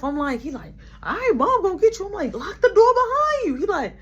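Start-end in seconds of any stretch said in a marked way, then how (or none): 1.0-3.5 higher, louder nagging yell; raised sibling shout; mock yell. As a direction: yell at your brother to lock up. Yelling at brother.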